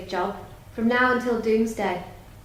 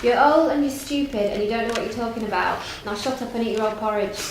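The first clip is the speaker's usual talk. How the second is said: harsh scolding. Acted. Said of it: "speaking as she does so".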